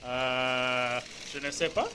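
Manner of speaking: heavy, hammed-up French accent. Shown as a demonstration. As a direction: say it like a proud French speaker. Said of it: "what else can you say en français".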